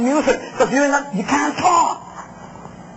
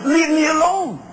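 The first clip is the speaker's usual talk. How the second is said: husband brushing her off; 5 semitones higher than usual. Retold or imitated. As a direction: snap Leave me alone at the wife like an irritated husband. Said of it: "And he says".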